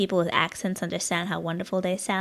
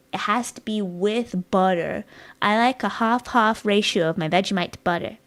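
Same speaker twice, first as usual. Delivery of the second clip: emphatic food rant; 6 dB louder than usual. Real, not acted. Passionate Vegemite rant.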